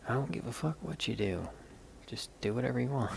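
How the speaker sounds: retold exasperation. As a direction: re-enact being fed up, not shouting. Retold blow-up at sister.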